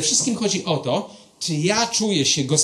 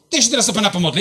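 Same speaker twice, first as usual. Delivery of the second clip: higher, hurried re-enacted announcement; nervous resolve; 5 semitones higher, 3 dB louder, much faster than usual. Pastor steps up to an agnostic to pray, re-enacted blurt. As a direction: blurt out the offer, half laughing. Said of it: "dopiero z dwóch metrów powiedziałem".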